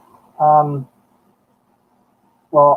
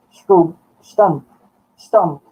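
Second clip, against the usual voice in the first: a light mock of a blunt old Scotsman, a little louder; gruff old man; 3 semitones higher, 4 dB louder, much slower than usual. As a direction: bark it out like a blunt old Scot. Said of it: "a bad impersonation of this man".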